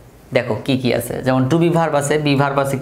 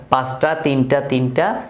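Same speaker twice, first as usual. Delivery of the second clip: evenly counted-off recitation; memorisation drill. Shown as a demonstration. Teacher shows students how to memorise, evenly counted recitation. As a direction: recite the numbers as a memory aid. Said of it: "এভাবে মুখস্থ করে রাখতে পারো".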